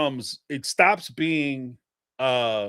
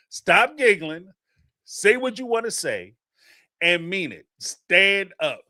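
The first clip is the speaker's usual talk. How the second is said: acted-out scolding, pitched high; exasperated urging; 6 semitones higher than usual. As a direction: read it as a firm, stretched-out demand. Reading viewer's exasperated comment aloud.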